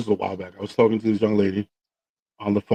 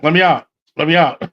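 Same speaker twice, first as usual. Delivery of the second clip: higher, lightly voiced puppet plea; imitated pocket puppet; 4 semitones higher, 4 dB louder than usual. Puppet pleading from his date's pocket, imitated puppet voice. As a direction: mimic a puppet calling out from hiding. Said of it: "I hear a noise coming out of her pocket".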